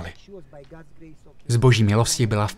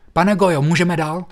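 urgent plea; 5 semitones higher than usual. Retold or imitated. Neighbours pleading to come in.

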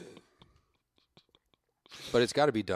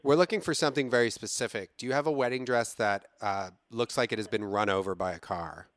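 Renee Fabergé voice; 3 semitones higher than usual. Acted. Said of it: "Please hold for Renee Fabergé".

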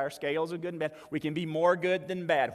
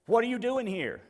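mildly voiced angel, higher, demanding an answer; puzzled angel; 5 semitones higher than usual. Angel questioning the thief at heaven's gate, puzzled. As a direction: question the newcomer, pitched up a little.

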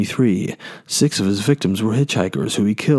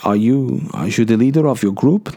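put-on second try at Dutch accent. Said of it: "Let me try again".

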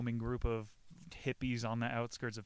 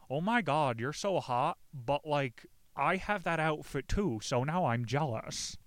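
higher-pitched mock girly voice; like a chick; 4 semitones higher, 3 dB louder than usual. Girl to a friend in the same outfit, mock chick voice. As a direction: put on a gushing, jealous girl. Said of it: "You gotta say it like a chick".

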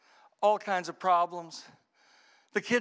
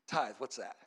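normal talking voice

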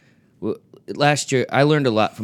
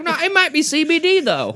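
mock dopey friend. Friend quoted defending lollipop.

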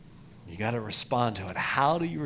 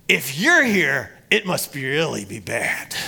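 imitating a worried lady; 3 semitones higher, 9 dB louder than usual. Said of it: "And then she goes".

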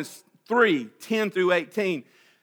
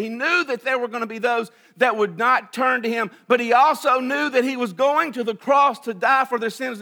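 loud, higher preaching cry; preaching shout; 5 semitones higher, 4 dB louder than usual. Real, not acted. Preacher to congregation, shouting the climax. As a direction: let it ring out to the back pew.

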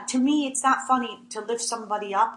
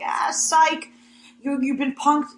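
mock taunting prank reveal; 4 semitones higher, slower than usual. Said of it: "and then they're like".

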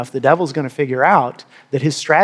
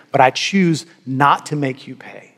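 calm resolve; 3 semitones lower than usual. Shown as a demonstration. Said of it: "Forgiveness simply means this".

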